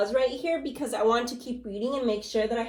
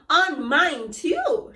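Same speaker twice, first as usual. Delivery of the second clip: slow, louder mock shout; 5 semitones higher, 6 dB louder, much slower than usual. Mister Twit shouting at his wife, read slow and louder. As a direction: bellow it out slowly. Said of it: "shouted Mister Twit".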